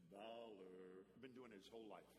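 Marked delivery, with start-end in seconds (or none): 0.1-1.1 low drawn-out call of Valor; long low sing-song call of Valor; calling grandson's name. Shown as a demonstration. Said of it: "but I say it like this".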